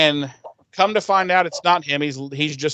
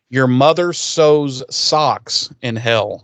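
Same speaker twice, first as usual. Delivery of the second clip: very slow, louder, drawn out; dubbed demon line; 5 dB louder, much slower than usual. Retold or imitated. Retelling the TV dub of the demon, slow and relishing. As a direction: savor each word of the dub. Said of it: "the demon in Exorcist actually says".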